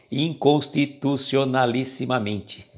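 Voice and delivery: "Inconstitucionalissimamente" drawn out syllable by syllable; slow, careful articulation of "Inconstitucionalissimamente"; long-word showpiece. Shown as a demonstration. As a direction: take "Inconstitucionalissimamente" slowly, giving every syllable its place.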